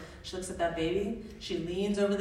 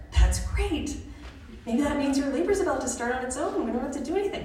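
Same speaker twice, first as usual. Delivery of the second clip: higher, upbeat student midwife; retold chirpy encouragement; cheerful reassurance; 6 semitones higher than usual. Student cheerfully reassures labouring mother.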